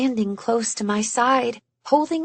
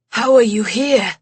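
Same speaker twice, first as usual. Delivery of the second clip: lightly voiced English-accented man, puzzled; a hint of English accent asking in wonder; light English accent, baffled; 4 dB louder than usual. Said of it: "that English accent of his".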